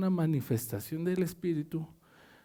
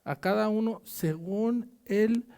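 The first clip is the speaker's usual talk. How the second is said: scripture reading. Acted. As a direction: read the verse out to the church. Reads scripture aloud to congregation. (lectura de la Biblia en voz alta)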